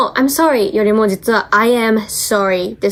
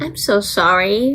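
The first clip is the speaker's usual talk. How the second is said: slow sorry; much slower than usual. Shown as a demonstration. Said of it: "That's horrible".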